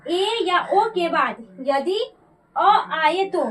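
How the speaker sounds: slow, deliberate rule for students to note; teacher dictating a rule slowly; slow dictation. Shown as a demonstration. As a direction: spell the rule out slowly so they can write it. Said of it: "ये ध्यान में रखिएगा".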